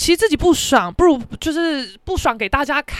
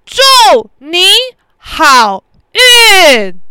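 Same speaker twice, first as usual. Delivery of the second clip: sarcastic good luck; 4 semitones higher, 10 dB louder, much slower than usual. Retold or imitated. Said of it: "转过去看他说".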